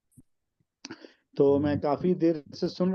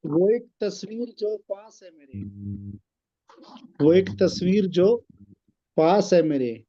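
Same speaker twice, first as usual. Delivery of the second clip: poem recitation. Acted. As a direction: recite the couplet with weight. Recites ghazal couplets.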